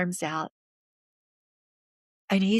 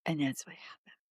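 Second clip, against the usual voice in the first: soft, low, solemn close; hushed; 3 semitones lower, 8 dB quieter than usual. Real, not acted. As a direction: drop to a near whisper. Quietly recalling the death.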